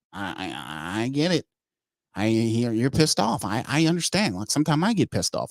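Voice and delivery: lightly voiced fussy GM whining; a hint of a petty, put-upon executive; mocking Mickey Loomis. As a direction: whine about clam chowder like a pampered boss. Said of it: "What he'll do is he'll say".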